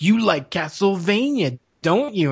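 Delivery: a hint of a game villain, drawn out; Psycho Mantis. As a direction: tease out the question slowly, as if reading a mind. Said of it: "you get to Psycho Mantis".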